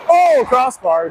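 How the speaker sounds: slow, high cry of near success; excited reaction. Real, not acted. Player reacting to hitting the crossbar, excited.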